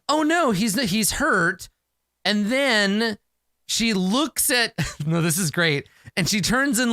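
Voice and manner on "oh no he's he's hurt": higher-pitched, lightly acted alarm; mock worry. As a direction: play worried for someone hurt. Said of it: "like she's worried about him".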